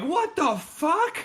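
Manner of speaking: way up high and drawn out, slow and stunned; high, slow, disbelieving cry; baffled outburst. Retold or imitated. Gilliman waking, baffled.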